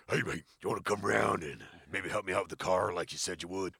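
a lightly put-on voice for a gentle big guy, friendly; big friendly giant voice. Scene: big guy asking his only mate to help with the car, lightly put-on friendly voice. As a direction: ask it like a shy big man asking a favour. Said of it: "I'll put on a voice".

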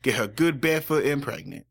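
hint of a Southern mother, a bit fast; Southern accent. Podcaster voices Dean's mom in Colorado, light Southern accent. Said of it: "I can do a Southern accent".

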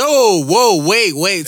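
loud, high, drawn-out protest; mock alarmed halt. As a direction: call out to stop her, hammed-up. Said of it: "You be like".

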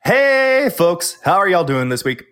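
loud, bright host hello; loud show-host welcome to the listeners; booming host greeting. Real, not acted.

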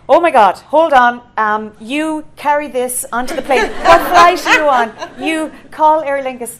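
she's thrilled and taking charge; excited woman. Retold or imitated. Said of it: "she goes".

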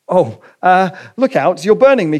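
a touch of panic as the heat hits; alarmed ghost. Acted. Ghost recoiling from the angel's burning hands, alarmed.

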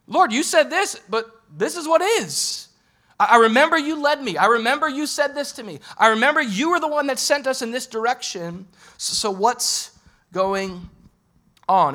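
a believer protesting to the Lord, voice pushed up; pleading prayer. Pretend. Praying frustrated at God.

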